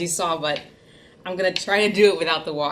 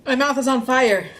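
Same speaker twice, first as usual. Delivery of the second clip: louder, slower cry of burning; drawn-out wail about the heat; 7 semitones higher, 6 dB louder than usual. Real, not acted. Eating very spicy noodles.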